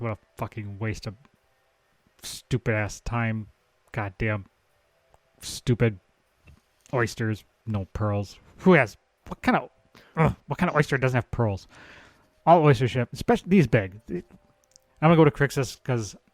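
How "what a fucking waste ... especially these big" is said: grumbling, muttered under breath. A player voicing their monk character after finding no pearls, grumbling under breath. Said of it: "I'm gonna mumble under my breath".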